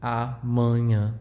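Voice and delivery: Amanhã with open first A and nasal vowels after; Portuguese amanhã. Shown as a demonstration. The teacher repeats amanhã after explaining. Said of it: "this sound and this sound are nasal".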